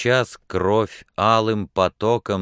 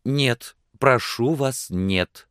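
pleading refusal; 8 semitones higher, slower than usual. A narrator's reading. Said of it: "сказала она".

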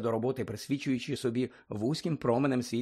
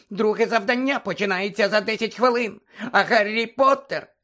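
Dobby the house-elf squeaking at Harry; squeaky house-elf; 7 semitones higher, 6 dB louder than usual. Acted. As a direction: squeak it like an anxious little elf. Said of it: "пищав Добі".

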